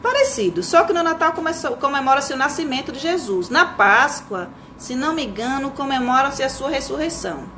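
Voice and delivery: pai explicando. Acted. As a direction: explain it to your son, a hint of performance. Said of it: "entre um pai e um filho". (pai explicando, levemente encenado)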